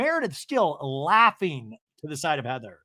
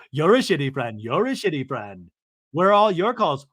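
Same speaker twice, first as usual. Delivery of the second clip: mock angry accusation; 6 dB louder than usual. Acted quarrel, Lisa firing back.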